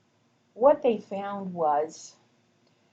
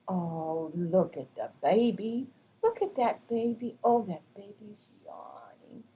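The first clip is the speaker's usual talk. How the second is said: enthusiastic; 2 semitones higher than usual. Shown as a demonstration. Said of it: "using some enthusiasm in my voice".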